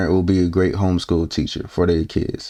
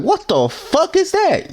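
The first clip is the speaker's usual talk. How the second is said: disgusted shock; slower than usual. Pretend. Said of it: "You're like".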